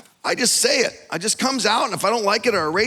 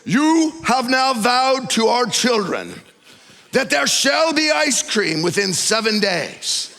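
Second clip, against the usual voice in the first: mock solemn vow; 3 semitones higher, 3 dB louder, slower than usual. Wife hears a solemn vow.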